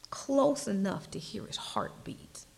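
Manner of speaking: hushed, unvoiced whisper; intimate whisper. Preacher describing closeness to God, whispered. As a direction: draw them close with a whisper. Intimate image of God's heartbeat.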